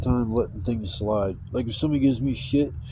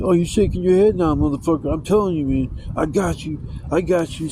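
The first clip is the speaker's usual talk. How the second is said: higher, mock-threatening taunt; pissed off; 5 semitones higher than usual. Bus rider threatening him from the back, pissed-off imitation. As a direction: imitate an angry man egging on a fight. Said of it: "all pissed off about something".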